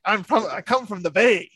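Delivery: lightly put-on Newfoundland accent; a touch of mock Newfie; imitated Newfie kid. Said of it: "he sounds like he's, like, a newfie".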